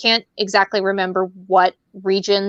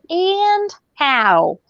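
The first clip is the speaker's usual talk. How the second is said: laughing echo; 9 semitones higher than usual. Retold or imitated. Echoing friend laughing.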